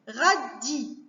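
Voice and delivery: "Radis" measured out as Ra... dis; two separate beats in "Radis"; short pause between the syllables of "Radis"; split into syllables. Shown as a demonstration. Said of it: "couper les mots en syllabes".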